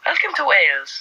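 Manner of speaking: lilting, badly faked Welsh; attempted Welsh accent. Welcoming visitors to Wales, unconvincing Welsh accent. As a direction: try Welsh and not quite get it. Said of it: "I can't do it".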